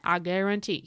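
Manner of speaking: a hint of a bad Cajun accent; horrible Cajun accent. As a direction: imitate a Cajun cook, badly. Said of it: "that was a horrible Cajun accent".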